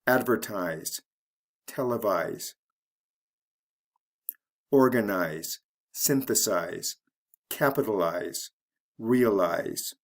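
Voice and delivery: AD-vertise, TEL-evise, OR-ganize, SYN-thesize, CAP-italize, RE-alize; first-syllable stress. Shown as a demonstration. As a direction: stress the opening of advertise, televise, organize, synthesize, capitalize, realize. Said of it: "the first syllable of the word is emphasized".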